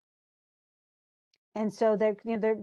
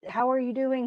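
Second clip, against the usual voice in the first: pitched-up cheerful retold greeting; happy greeting; 4 semitones higher than usual. Hamlet welcoming Rosencrantz and Guildenstern, happy and higher. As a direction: ask it like you're pleased to see them. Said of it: "He's all happy to see them".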